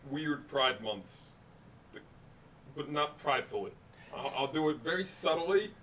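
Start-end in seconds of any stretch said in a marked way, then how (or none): 0.1-1.3 slow and drawn out, softer; very slow drawl. Real, not acted. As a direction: stretch each word. Mock drawn out disdain.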